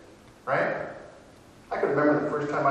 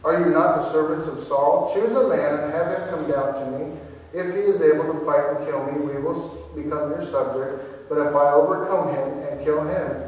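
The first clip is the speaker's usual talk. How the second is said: a louder, preached giant's challenge; Goliath's challenge; 3 dB louder than usual. Acted. Goliath shouting defiance at the ranks of Israel, louder. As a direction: throw the taunt across the valley. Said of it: "Goliath stood and shouted".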